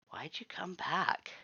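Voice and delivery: breathy whisper, slow and hushed; whispered question. Acted. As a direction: ask it under your breath, wary. Mutt asks quietly after contemplation.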